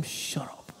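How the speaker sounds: hushed, soft dismissal; whispered shut up. Acted. Believer silences Satan's threat with a whispered retort. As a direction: shut him down in a low breath.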